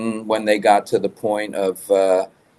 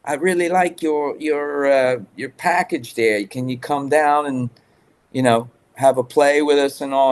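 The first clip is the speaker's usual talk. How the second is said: imitating a Welsh accent, higher pitched; a hammed-up Welsh accent, pitched up; the speaker's Welsh accent; 6 semitones higher than usual. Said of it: "it's him with his Welsh accent".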